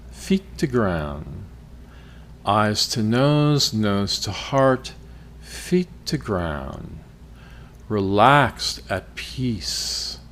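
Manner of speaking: deliberate phrases with room to breathe; guided meditation. Acted. Podcast host guides listeners toward peace, guided meditation. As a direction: lead them through the body, phrase by phrase.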